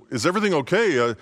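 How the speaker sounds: high, frantic wife pleading; anxious young wife voice; panicked wife. Acted. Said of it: "She rushes up to him and says".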